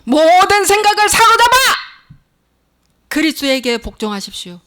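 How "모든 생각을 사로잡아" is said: high, loud preaching cry; fervent high-pitched pulpit shout; shouted exhortation. Real, not acted. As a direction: proclaim it at full force.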